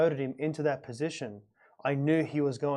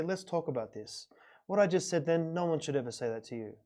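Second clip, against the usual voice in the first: calm fatherly talk; 6 dB quieter than usual. Retold or imitated. Father calmly apologizes to his kids.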